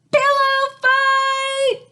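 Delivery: very high, loud, slow sung-out shout. A narrator's reading. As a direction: belt it out gleefully. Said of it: "appeared and shouted".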